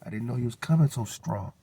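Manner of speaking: squeaky, high, amazed voice; impressed stranger. Retold or imitated. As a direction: play the stranger, startled and impressed. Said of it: "They say".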